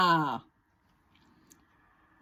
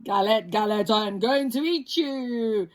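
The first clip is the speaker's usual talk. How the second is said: deep voice. Acted. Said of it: "says the wolf in his deep voice".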